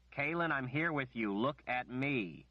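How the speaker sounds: urgent. Acted. Richard pleads urgently.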